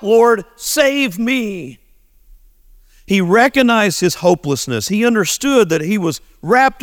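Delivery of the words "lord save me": slow drawn-out plea, higher; a sinner's slow pleading cry for rescue; crying out to God. Retold or imitated. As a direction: stretch each word like a desperate cry. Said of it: "he cried out".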